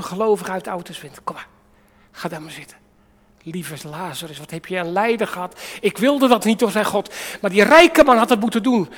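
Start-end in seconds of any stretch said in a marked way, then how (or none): 5.8-8.9 voice of God. Acted. God voiced in the Lazarus story.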